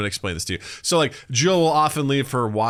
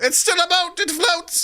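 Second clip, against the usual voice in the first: herald; slower than usual. Acted. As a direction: proclaim it like a medieval herald. Herald insists about canoe.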